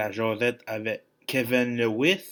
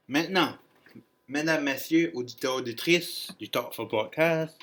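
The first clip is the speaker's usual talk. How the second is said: higher-pitched emcee address; showman announcer; 4 semitones higher than usual. Pretend. Host addresses podcast listeners, showman announcer voice.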